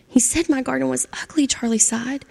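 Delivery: gentle storybook narration with voiced characters; reading to children. A narrator's reading. Storyteller reading to kids, lively and gentle. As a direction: tell it like a bedtime story to a class.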